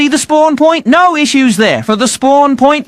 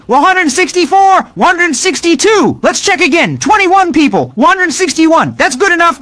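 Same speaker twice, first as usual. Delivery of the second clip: higher, lively gaming commentary; excited play-by-play; 5 semitones higher than usual. Real, not acted. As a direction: call the match as it happens, pumped. Excited gameplay commentary, raised pitch.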